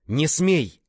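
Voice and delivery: high, loud forbidding cry; alarmed shout. A narrator's reading. Man seeing the swordsman attack anew, alarmed shout. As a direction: yell to halt the attacker.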